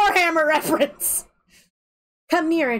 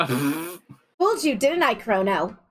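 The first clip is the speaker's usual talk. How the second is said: sly villain voice; 7 semitones lower, much slower than usual. Acted. Villain reveal.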